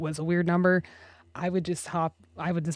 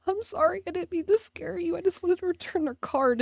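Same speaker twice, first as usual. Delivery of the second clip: اعتذار بصوت عالٍ; 10 semitones higher than usual. Retold or imitated. Retold apology to frightened lady.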